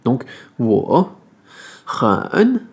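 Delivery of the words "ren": "ren" said high with a clipped N; Chinese ren. Shown as a demonstration. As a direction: cut the N of "ren" halfway. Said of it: "le E qui va se prononcer un peu comme un E". (ren, N coupé à la moitié)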